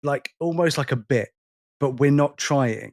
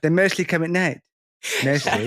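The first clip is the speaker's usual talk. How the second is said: Cartman line; 2 semitones higher than usual. Retold or imitated. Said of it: "He goes".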